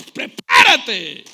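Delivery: mock-threatening, stretched out; slow menacing prepárate. Preacher mock-threatening a neighbour, slow and stretched. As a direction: drag out Prepárate slowly with a threat. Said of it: "dan ganas de darle una cachetada".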